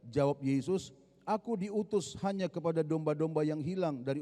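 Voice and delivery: steady, brisk Bible reading aloud; scripture reading. Acted. Preacher reading the Gospel story aloud to the church, brisk and even. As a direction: read the passage to the congregation at pace.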